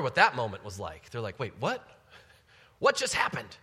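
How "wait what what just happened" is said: startled realization. Retold or imitated. Adam and Eve suddenly realizing.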